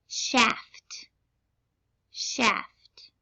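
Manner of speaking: whispered dictation word. Shown as a demonstration. Spelling test dictation.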